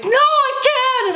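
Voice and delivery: high, drawn-out tantrum yell; mock freak-out. Hungry pregnant woman refusing to wait, mock freak-out. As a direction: act out losing it, slow and very high. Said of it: "I just start freaking out".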